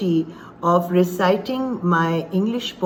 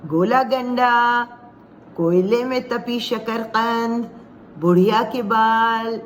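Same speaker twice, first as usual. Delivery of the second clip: higher sing-song hawker's call, last syllables held long; street vendors' cries; 4 semitones higher than usual. Acted. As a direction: call out wares like a street seller. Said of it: "आवाज़ दें".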